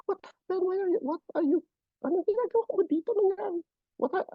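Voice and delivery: high, startled English questions; shocked airline agent asking what happened. Retold or imitated. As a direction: blurt it out in surprise. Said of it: "English na, sabi ko".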